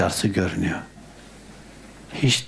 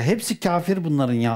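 normal talking voice

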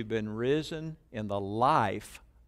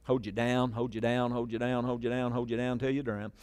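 mock dunking; 4 dB quieter than usual. Joking about baptism as drowning.

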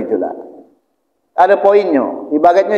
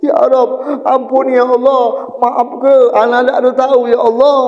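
tearful pleading; 5 semitones higher than usual. Acted. Sinner begging Allah for forgiveness and paradise, tearful pleading. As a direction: beg for mercy in a mildly wailing chant. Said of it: "Nangis-nangis".

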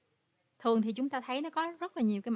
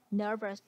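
nervous with the stress on NER; stress on first syllable. Shown as a demonstration. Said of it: "là nhấn vần một".

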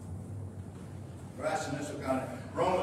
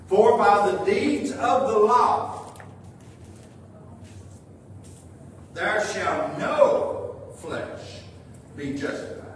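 "no flesh" drawn out with long pauses; deliberate scripture reading, pausing before "there shall no flesh"; slow emphatic re-reading; slower than usual. Real, not acted. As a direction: spell out the verse slowly, phrase by phrase. Verse re-read for emphasis.

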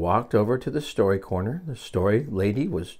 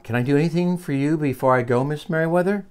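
higher, rising question; polite offer; 7 semitones higher than usual. Acted. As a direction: offer help on the way out.

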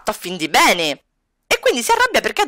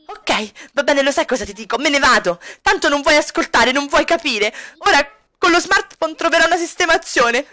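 Kami's voice; 5 semitones higher than usual. Acted. Kami storming off.

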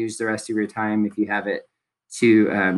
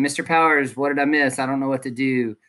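a slightly raised, mildly needy student plea; demo of a late student; 3 semitones higher than usual. Shown as a demonstration. Teacher demos a late student's needy question. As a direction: play the late kid asking what he missed. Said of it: "please don't show up saying".

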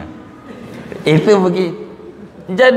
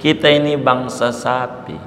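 lightly voiced mother cow, gentle and pitched down; 5 semitones lower than usual. Mother cow telling her calf cows don't pray, mildly gentle. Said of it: "tapi halus".

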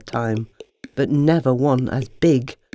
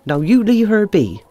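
urgent whisper; 5 semitones higher, 5 dB louder than usual. Acted. Henrietta protects Eva.

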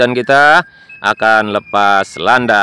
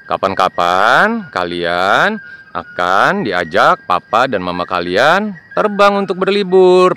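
ordinary delivery

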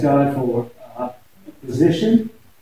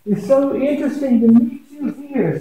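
mock surprise; 9 semitones higher than usual. Host greets guest with mock surprise.

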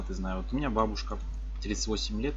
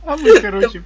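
laughing; 14 semitones higher, 15 dB louder than usual. Real, not acted. Laughing mid-story.

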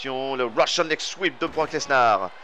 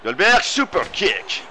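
excited shout; 3 semitones higher, slower than usual. Real, not acted. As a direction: belt out the move name. Big move in match commentary. (cri excité de commentateur)

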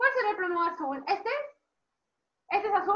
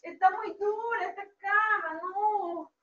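higher, whining play-acted complaint; complaining Goldilocks; 4 semitones higher than usual. Teacher replays Ricitos on the hard bed, higher whine. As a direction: groan it in mock discomfort.

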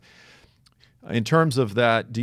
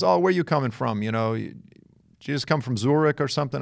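New York man; 5 semitones higher than usual. Retold or imitated. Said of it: "you could just tell by his accent".

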